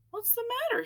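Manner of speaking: nervously. A narrator's reading. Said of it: "he asked nervously".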